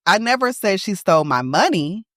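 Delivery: money lifted at the end; stress on money. Shown as a demonstration. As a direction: finish hard on money. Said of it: "It just wasn't my money".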